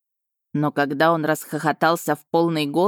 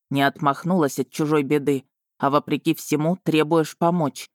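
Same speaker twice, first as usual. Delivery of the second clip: admiring dragon Vargan; 2 semitones lower than usual. Acted. Dragon explains why he chose Marina, admiring. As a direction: explain your regard in a slightly lowered voice.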